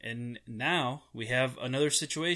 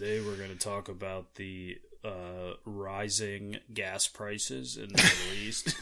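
NPR host voice; 3 semitones lower than usual. Pretend. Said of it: "we're like N P R".

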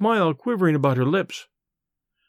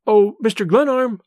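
higher and louder call of his name; crying out; 5 semitones higher, 5 dB louder than usual. A narrator's reading. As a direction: she cries out to the old man. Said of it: "she cried".

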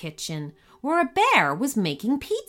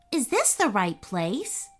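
hopeful; 2 semitones higher than usual. Acted. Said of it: "asked Benny hopefully".

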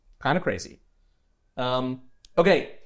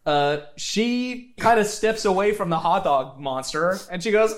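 usual speaking voice

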